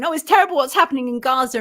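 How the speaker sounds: quick mock lament; Dawn French. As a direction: mimic a hand-wringing video statement, lightly mocked. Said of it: "people like Dawn French, who will make a video going".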